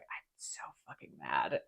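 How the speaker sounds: seething. Retold or imitated. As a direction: whisper it through clenched rage. Michael furious after facade dissolves.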